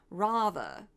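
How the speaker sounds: slightly affected "Rather" with an open "ah"; affected pronunciation. Retold or imitated. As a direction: imitate a mannered "Rather", as "rah-thuh". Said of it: "It's slight, but you'll hear it".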